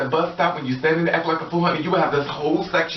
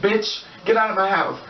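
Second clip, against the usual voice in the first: high-pitched hammed-up crazy outburst; mock screaming; 7 semitones higher than usual. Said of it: "you start screaming".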